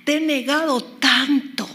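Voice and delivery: mild retold shout in prayer; retold cry to God. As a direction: re-enact crying out to God, slowing between outbursts. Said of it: "Y grité y dije".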